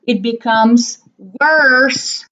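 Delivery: slow teaching. Shown as a demonstration. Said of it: "teacher models the comparative".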